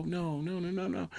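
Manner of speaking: mock despair. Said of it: "best performance on a phone call".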